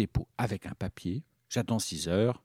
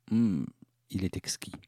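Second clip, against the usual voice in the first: mouth full; 6 dB louder than usual. Pretend. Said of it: "qu'il est difficile de parler lorsqu'on a les dents collées".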